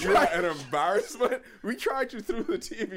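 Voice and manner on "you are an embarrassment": louder, laughing mock scolding; audible heckling. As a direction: heckle him loudly through laughter. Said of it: "all of us just audibly".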